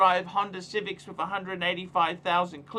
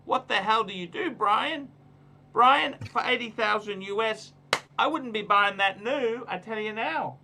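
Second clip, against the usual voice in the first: exasperated; 5 semitones higher, 4 dB louder than usual. Real, not acted. Exasperated advice to Brian.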